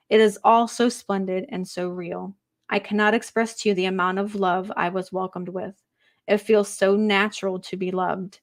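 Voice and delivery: measured medium reading voice; channeled spirit message. Acted. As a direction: speak as the departed, gently.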